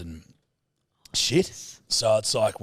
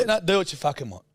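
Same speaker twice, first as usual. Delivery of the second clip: salty dad; 7 semitones higher, faster than usual. Retold or imitated. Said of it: "he gets really salty".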